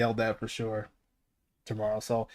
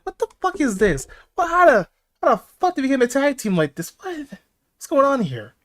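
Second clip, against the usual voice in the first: much higher, louder disbelieving cry; shocked outburst; 11 semitones higher, 5 dB louder than usual. Retold or imitated. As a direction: squeal in outrage at the news. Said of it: "I'm like".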